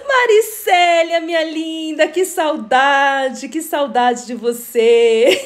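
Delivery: slow, drawn-out fond welcome; gushing hello to someone missed; affectionate greeting. Real, not acted. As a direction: stretch the vowels with longing. Greets a missed friend in live.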